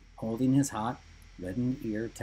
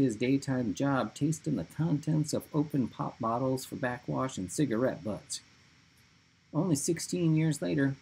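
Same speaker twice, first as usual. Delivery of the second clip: high shaky voice; 4 semitones higher than usual. Acted. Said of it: "reading in his high, shaky voice".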